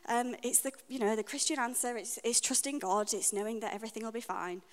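imitating her breezy past self; glib stock answer. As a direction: rattle off the pat Christian answer lightly. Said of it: "I would have said".

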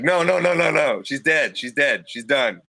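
quick insistent calls, easing off; mild mock yell. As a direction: retell a yell without full volume. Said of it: "he yelled loud enough".

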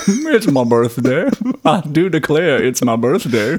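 lightly mocked Southern accent. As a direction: playfully draw out a Southern accent. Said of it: "he doesn't actually talk like that".

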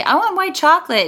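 high, haughty customer asking; snooty. Retold or imitated. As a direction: say it like a snob. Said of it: "like, snooty".

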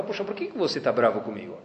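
quiet and considerate approach; gentle question. Acted. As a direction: ask it delicately, keeping the voice down. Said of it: "de uma forma delicada".

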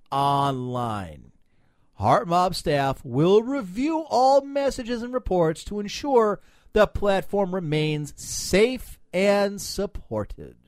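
slow, emphatic read-out; reading aloud. Real, not acted. Host reading a site's pitch to co-hosts, slow emphatic read-out. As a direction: read it out with drawn-out, weighty words. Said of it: "now I'm reading this".

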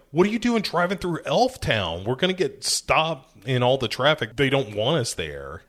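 a touch of acted exasperation, easing off; mock mad. Cop scolding his orc partner for driving through Elf Town, mildly mad. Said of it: "then gets mad at him".

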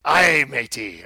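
slow loud pirate growl. Pretend. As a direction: ham up the pirate. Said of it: "that's a pirate".

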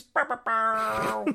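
high, slow "bow bow bow" sound effect; sound effect noise. Pretend. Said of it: "the Ichor Shade noise".

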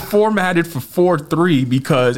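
slow, laughing through the words; fighting back laughter while explaining; stifled giggles. Real, not acted. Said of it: "I'm trying not to laugh here".

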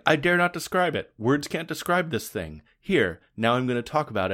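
a mild mock grandiose narrator; mock overwrought. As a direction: sendup of a pompous author, lightly voiced. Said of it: "in this really overwrought way".

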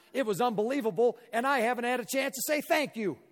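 a hint of an excited stranger saying thanks; grateful fan. Voices grateful fan Robert.

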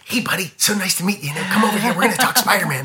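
lightly put-on voice, welcoming a new hire; lightly imitated director's voice. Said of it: "he's got this great voice".

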